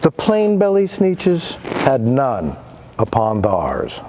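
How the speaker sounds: lilting storybook read-aloud; gentle rhythmic storytime voice; reading to children. Acted. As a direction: read it like a picture book to kids. Reads Dr. Seuss to kids.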